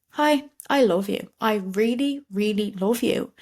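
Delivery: slow, gentle mirror talk to yourself; a slow, tender I love you to yourself; tender self-affirmation. Shown as a demonstration. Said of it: "can you look at yourself and be like".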